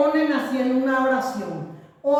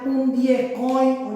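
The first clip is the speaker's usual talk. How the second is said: sounding out words; slower than usual. Shown as a demonstration. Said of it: "oye, ya dije".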